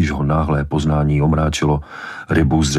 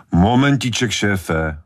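raised-pitch protest, stretched at the start; objecting; 5 semitones higher, slower than usual. A narrator's reading. Man objecting to the police chief's order, protesting. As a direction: push back at being ordered away. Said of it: "namítl muž".

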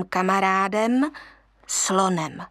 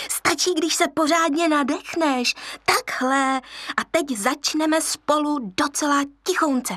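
hyena teacher; 5 semitones higher than usual. Acted. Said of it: "ona ho za to učila".

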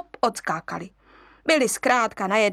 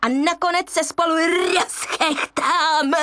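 a cackling hyena cheering her friend on; hyena egging on; 8 semitones higher than usual. Acted. Hyena urges louder laughing.

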